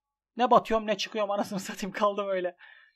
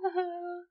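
despairing cry-laugh; 9 semitones higher, 4 dB quieter than usual. Real, not acted. Despairing laugh after losing.

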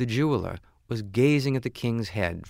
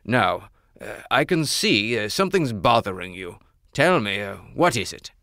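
louder, kindly king voice; concerned king; 5 dB louder than usual. Acted. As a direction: ask what troubles him. King asks his friend.

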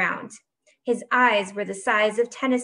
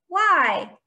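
high, loud wail of protest; whiny high-pitched complaint; whine; 9 semitones higher, 6 dB louder than usual. A narrator's reading. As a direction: whine it, stretched and pleading. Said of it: "whined Peckelman".

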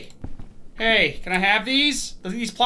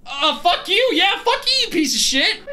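angry yell; 9 semitones higher than usual. Real, not acted. Yelling at creature.

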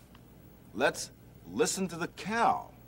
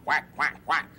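duck quack. Retold or imitated. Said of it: "a duck goes".

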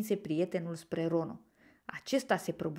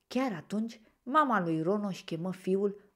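usual speaking voice

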